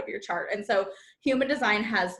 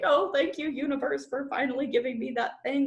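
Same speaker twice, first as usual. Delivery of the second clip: mock humble thanks; meek grateful sigh to the universe; groveling thanks; 3 semitones higher than usual. Shown as a demonstration. Coach imitates groveling to the universe, meek.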